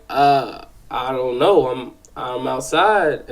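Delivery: slow, hesitant retold answer; mildly sheepish little kid caught out. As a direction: stall on the uh, answer haltingly. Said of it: "kinda sheepish".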